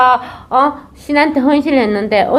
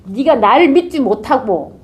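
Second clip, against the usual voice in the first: angry god. Acted. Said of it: "그 신이 더 노발해가".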